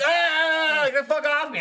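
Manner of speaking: high, loud squeal of protest; exaggerated grossed-out shriek; mock disgusted yell. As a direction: imitate squealing to get someone off. Acts out disgusted licked partner.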